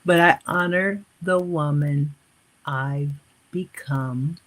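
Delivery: measured affirmation, slowing at the end; slowly, for dictation. Shown as a demonstration. Coach repeating so viewers can write it down, slowly. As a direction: spread the phrases out for note-takers. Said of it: "Let me repeat this slowly".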